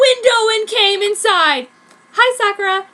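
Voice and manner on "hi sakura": properly. A narrator's reading. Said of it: "he said properly".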